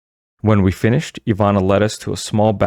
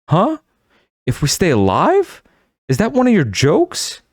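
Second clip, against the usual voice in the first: weakly; 12 semitones higher, 3 dB louder than usual. A narrator's reading. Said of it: "I asked weakly".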